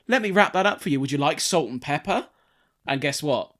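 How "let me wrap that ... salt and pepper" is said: shop server. Retold or imitated. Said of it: "they're like".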